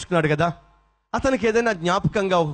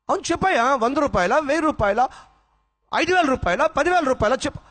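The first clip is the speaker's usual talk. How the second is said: insistent raised voice; 9 semitones higher than usual. Acted. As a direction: press him to name a price, shouting by the end. Master insists, raising price.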